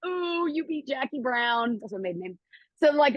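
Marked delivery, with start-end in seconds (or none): 0.1-1.8 lightly imitated kids' teasing, drawn out; mock a playground "ooh", stretched slow; mild taunting. Little friends to the loser of the limbo, mildly taunting.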